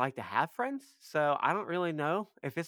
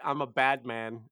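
quoting tough line; 3 semitones lower, slower than usual. Retold or imitated. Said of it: "I wanna get".

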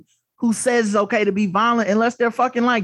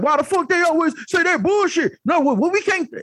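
incredulous mock voice; 8 semitones higher than usual. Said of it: "And everyone's like".

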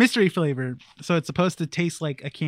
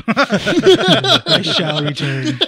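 dramatic villain line; 5 semitones higher, 6 dB louder, much slower than usual. Pretend. Jokey grand farewell quote.

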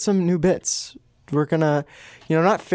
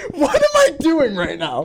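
laughing; 9 semitones higher than usual. Real, not acted. Breaks character laughing.

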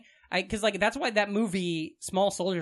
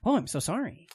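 folksy; 3 semitones higher than usual. Shown as a demonstration. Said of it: "a folksy farm voice".

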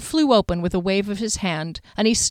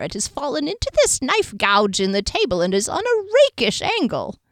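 diviner voice; 6 semitones higher than usual. Acted. Diviner reading chain.

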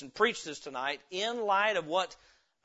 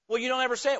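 raised-pitch wifely complaint; complaining wife; 6 semitones higher, 4 dB louder, much faster than usual. Acted. Wife complains husband never says it, reproachful. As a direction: push back with an accusing edge.

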